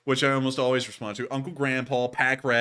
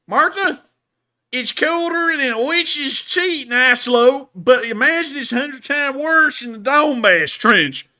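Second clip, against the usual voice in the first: a big, hammed-up Southern hick accent, much higher, much louder and slow; 12 semitones higher, 11 dB louder, slower than usual. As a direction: belt it out like a Southern country hick. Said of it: "read it in a real Southern hick accent".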